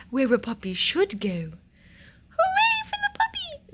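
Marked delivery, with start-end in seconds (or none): 2.4-3.7 high, excited cheer; queen cheering. Acted. Queen cheering the puppy, high and excited. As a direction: celebrate like it's a triumph. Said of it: "said the queen".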